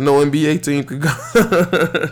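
amused, slowed retelling of Bron's reply; laughing retelling. Retold or imitated. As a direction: laugh while repeating it. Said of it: "He said".

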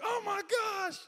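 imitating stunned people; freaking out. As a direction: gasp it like an awed onlooker. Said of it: "people freaking out like".

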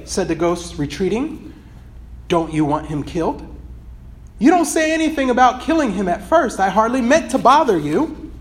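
steady storytelling read of a passage; earnest read-aloud of a book excerpt. Acted.

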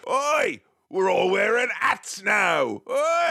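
high, shouted English mob heavy; shouting Peaky Blinders gangster. Retold or imitated. Mocking the English mob with a hammed-up gangster shout. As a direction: bark it like a Peaky Blinders thug. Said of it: "Like, like Peaky Blinders?".

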